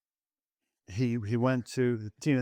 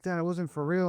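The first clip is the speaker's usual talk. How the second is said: much higher panicky protest; panicked son; 7 semitones higher, 3 dB louder than usual. Retold or imitated. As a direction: squeak in disbelief.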